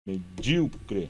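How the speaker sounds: Medíocre said very slowly, syllable by syllable; slow syllable-by-syllable reading. Shown as a demonstration. Teacher breaking a word into syllables, very slow. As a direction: draw out Medíocre to count its syllables. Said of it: "Eu tenho, ó".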